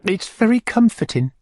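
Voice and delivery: high coy matron voice; Missus Corney. Acted. Matron urging the beadle to taste, high and coy. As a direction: lift the pitch high and coax him.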